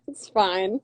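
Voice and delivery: laughing at herself, squealing. Real, not acted. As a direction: laugh through it, embarrassed. Laughing at own haircut.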